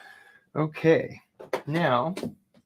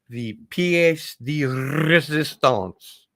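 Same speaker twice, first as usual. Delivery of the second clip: grand reveal; 5 semitones higher, 5 dB louder, much slower than usual. Acted. Grand announcement of the best item.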